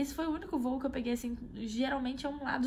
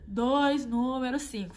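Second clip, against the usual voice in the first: louder, insistent "Dois, número cinco"; stubborn repeat; 2 semitones higher, 6 dB louder, slower than usual. Retold or imitated. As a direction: keep repeating the order louder. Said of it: "só repetia".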